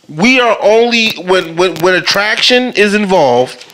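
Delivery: distorted mic sound. Real, not acted. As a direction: voice breaking up through a crackly mic. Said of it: "I sound really distorted".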